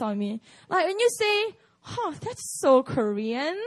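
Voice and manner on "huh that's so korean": slow, mock-scornful remark with a huff; condescending imitation. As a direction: imitate someone looking down on it, drawn out. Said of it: "with the look on your face and with the tone".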